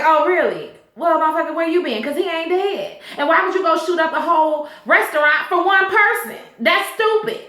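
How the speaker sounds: a lightly voiced gangster telling off his man; mock angry boss. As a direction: scoff at him like a mocking crime boss. Julius scolds Quan in retelling.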